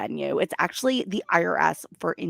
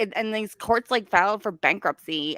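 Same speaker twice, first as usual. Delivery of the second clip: mocking impression. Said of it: "I need to start talking like this woman".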